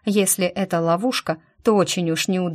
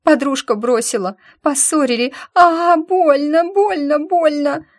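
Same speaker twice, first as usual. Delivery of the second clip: howling in pain; 9 semitones higher, 6 dB louder than usual. A narrator's reading. Girl with broken foot howls to Lika, loud pained wailing. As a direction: wail out the pain. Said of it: "завопила Ди".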